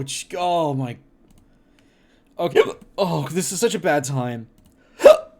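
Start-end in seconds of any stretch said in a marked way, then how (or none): 5.0-5.3 loud gasping breath in; gasping before holding breath; sharp gasp. Real, not acted. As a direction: suck in a big gasp of air to stop the hiccups. Gasps to stop hiccups.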